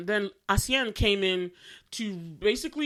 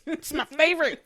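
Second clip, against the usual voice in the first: gushing; 7 semitones higher, 6 dB louder than usual. Real, not acted. Gushing about a favorite actor.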